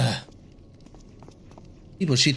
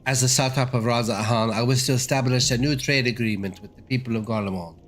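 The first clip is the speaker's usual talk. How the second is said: put-on a light British accent, formal and measured. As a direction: play the envoy with a British accent, politely. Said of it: "I decided to make him British".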